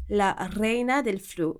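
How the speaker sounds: "Reina" said slowly with a trilled Spanish r; rolled r. Shown as a demonstration. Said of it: "je roule les R comme en espagnol".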